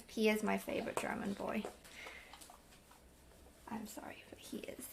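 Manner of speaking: secretive whisper. Real, not acted. Whispering to viewers that he is her favorite. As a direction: whisper it so Ollie won't hear. Whispered confession, Ollie not to hear.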